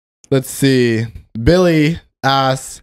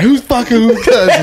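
high-pitched, laughing Boston imitation; hammed-up Boston voice, pitched up; Boston accent; 9 semitones higher, 4 dB louder than usual. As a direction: echo the joke in a mock Boston accent. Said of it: "Boston has a different accent".

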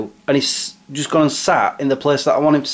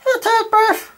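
high puppet voice; slower than usual. Acted. Fwed answers the phone.

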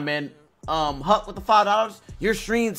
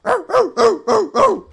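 cracking bark; 7 dB louder than usual. Pretend. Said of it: "to voice crack".

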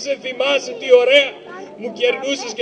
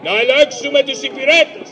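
eager hurry; 3 semitones higher than usual. Acted. Rushing to the kitchen.

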